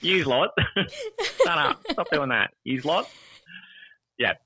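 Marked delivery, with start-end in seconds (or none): 0.0-3.1 put-on yous lot in a laughing broad Aussie accent. Parodying Aussies scolding a group, broad Aussie accent. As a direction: play a rough Aussie telling people to shut up. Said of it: "we speak so terribly".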